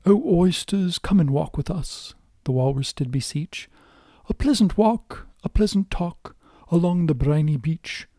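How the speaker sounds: a hint of a pompous walrus. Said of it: "Maybe I should do the walrus voice".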